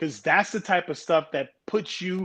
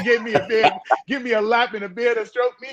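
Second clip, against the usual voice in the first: laughing through the words, a bit higher; 5 semitones higher, faster than usual. Real, not acted. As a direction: joke while chuckling. Laughing joke about beard.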